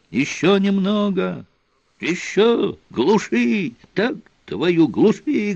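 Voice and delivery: high shouted commands over noise; перекрикиваясь. A narrator's reading. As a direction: yell orders across the deck. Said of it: "перекрикивались, как шоферюги у гаражей". (выкрикивая команды)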